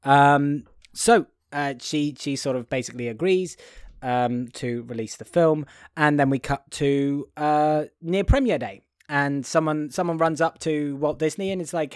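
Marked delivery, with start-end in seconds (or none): none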